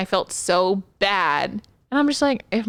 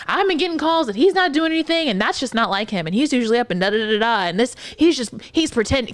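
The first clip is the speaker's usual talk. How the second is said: higher blustering son; pushy son; 3 semitones higher, faster than usual. Retold or imitated. Therapist mimicking the son's complaint, blustering. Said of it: "he's like".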